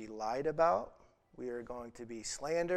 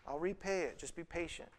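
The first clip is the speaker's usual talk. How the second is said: higher pleading voice that fades to soft; pleading slave; 6 semitones higher, 4 dB quieter than usual. Retold or imitated. Second slave begging his fellow slave, fading plea. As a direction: beg timidly, losing volume. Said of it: "So that slave".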